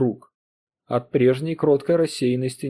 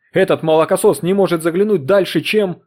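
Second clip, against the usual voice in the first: loud, higher furious outburst; angry rant; 5 semitones higher, 7 dB louder than usual. Acted. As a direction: tear into the young upstart. Husband rages at Foster. (громкая гневная тирада)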